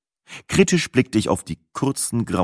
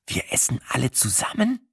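softer, through gritted teeth; gritted-teeth grumble; 6 semitones higher, 6 dB quieter than usual. Acted. Narrator mutters to his girlfriend, gritted-teeth grumble. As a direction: grind it out under a forced smile. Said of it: "knirschte ich".

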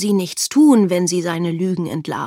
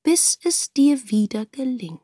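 gebieterischer König; 4 semitones higher than usual. Acted. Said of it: "sagte der König".

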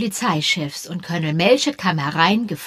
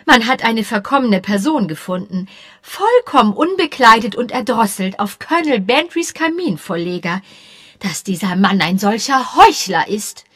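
mildly breathless; 3 semitones higher, 6 dB louder than usual. Acted. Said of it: "keuchte ein wenig".

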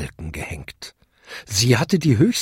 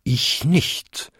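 higher, voiced bell denying it; bonging second bell; 4 semitones higher than usual. A narrator's reading. Second-largest bell denies it to the largest, bonging. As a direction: chime it with a raised ending. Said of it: "bummte die zweitgrößte".

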